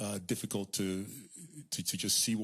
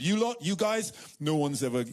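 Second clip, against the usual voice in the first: rebuke; 5 semitones higher, 3 dB louder than usual. Acted. Preacher rebukes the men.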